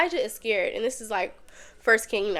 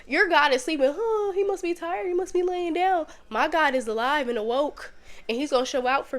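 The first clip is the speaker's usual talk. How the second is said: taunting, higher mock voice; mocking Elijah; 5 semitones higher than usual. Elijah taunting the prophets of Baal, mocking. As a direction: tease them that their god is asleep. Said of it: "he really was like".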